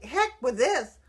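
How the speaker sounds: retold exasperated outburst; fed-up outburst. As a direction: brush the calculator off in disgust. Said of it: "I was like".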